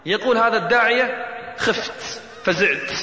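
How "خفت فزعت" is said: voiceless, hushed admission of fear; a hushed retelling of being afraid; frightened hush. Retold or imitated. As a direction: breathe the word out, scared. Preacher retells his fear.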